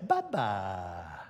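low, drawn-out "Papa" like a huge crowd; crowd calling Papa. Retold or imitated. Preacher imitating a huge crowd calling Papa. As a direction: echo eleven thousand voices saying "Papa". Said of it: "they say".

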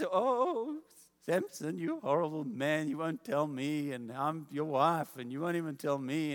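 half-acted sobbing reproach; mock crying. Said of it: "she starts to cry".

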